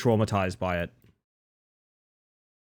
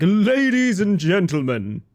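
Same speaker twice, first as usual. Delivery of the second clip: announcer voice; 5 semitones higher, 3 dB louder, slower than usual. Pretend. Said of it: "I was gonna be like".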